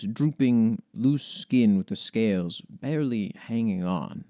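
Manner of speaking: storyteller voice, unhurried and grave; story narration. Acted. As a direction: read it like an old chronicle, savouring the dread. Reads a lore entry aloud.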